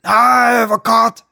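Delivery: high, loud gushing delight; hammed-up parental enthusiasm; excited mother. A narrator's reading. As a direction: squeal with overdone joy at the news. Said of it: "siger min mor begejstret".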